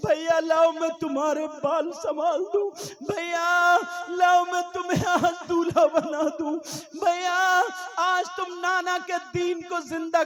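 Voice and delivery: weep as she begs to dress him; tearful plea. Acted. Zainab pleads with her brother Husain, sobbing.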